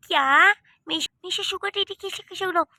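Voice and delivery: taken aback. Acted. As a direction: balk at it, stumbling on the first word. Told to call him sugar daddy.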